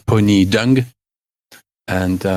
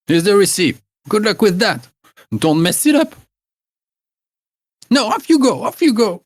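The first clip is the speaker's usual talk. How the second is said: higher, shooing crone voice; old hag sending the girls off, demanding her pies; 13 semitones higher, 5 dB louder than usual. Acted. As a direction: brush them off like a bossy old hag. Gerda hands over receipt.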